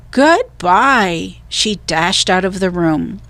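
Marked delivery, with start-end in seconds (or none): 0.1-1.4 Annie leaving. A narrator's reading. Annie flees the mummy room.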